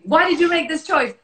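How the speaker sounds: high, teary plea, voice cracking into a cry; pretend crying. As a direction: act out a choked, tearful excuse. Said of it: "and I'll be crying".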